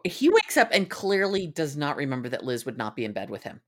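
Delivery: normal talking voice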